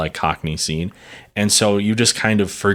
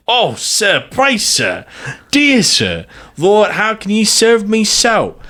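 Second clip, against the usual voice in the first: high mock-feminine pleading; mocking woman's voice; 11 semitones higher, slower than usual. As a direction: mince it up in a high falsetto. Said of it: "mimic the language of women".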